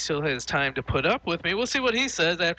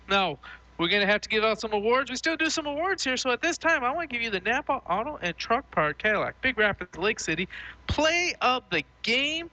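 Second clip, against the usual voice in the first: higher, lively sports-show announcer read; radio post-game host; 7 semitones higher than usual. Acted. Host tossing the sponsored award to his co-host, announcer voice. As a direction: present the award like a local sports broadcaster.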